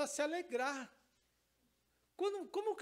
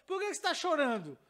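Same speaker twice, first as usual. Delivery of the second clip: put-on child's question; 5 semitones higher, 5 dB louder, faster than usual. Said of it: "Mais ou menos que eu falo".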